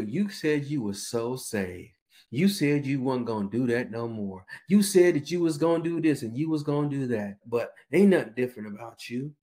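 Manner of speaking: lightly voiced mocking tempter; taunting adversary. Adversary taunting a backslider, lightly mocking. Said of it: "What's the adversary gonna do?".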